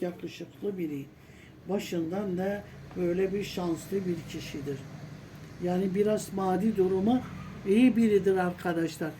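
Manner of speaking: strained, barely-there voice; pushing words out through a failing voice; strangled voice. Real, not acted. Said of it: "Sesim çıkmasa bu kadar çıkıyor". (kısık, zorlanan ses)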